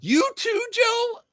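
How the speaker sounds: very high squealed mock shock; hammed-up betrayed squeal; playful outrage at a friend; mock betrayal.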